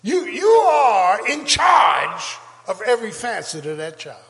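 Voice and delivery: slow, loud preaching shout. Real, not acted. Pastor shouting to parents about their duty, slow loud shout. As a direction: stretch it out and hammer it home.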